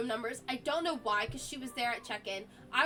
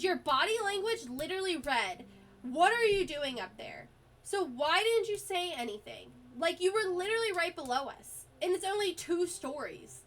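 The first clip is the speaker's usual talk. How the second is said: retold angry rant; 5 semitones higher than usual. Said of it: "I yelled at him so loudly".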